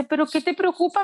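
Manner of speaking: put-on a child calmly questioning her mother; daughter's voice. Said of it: "Y me dice".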